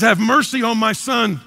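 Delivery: loud plea. Retold or imitated. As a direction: call out for the son. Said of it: "He says".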